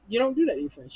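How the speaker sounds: outraged high-pitched scolding; indignant repeat. Real, not acted. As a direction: push it up in disbelief. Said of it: "No, you don't do that to your friend".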